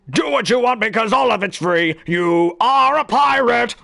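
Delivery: put-on camp kids-show villain crooning; Lazy Town villain voice. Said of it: "'cause he kinda talks like that".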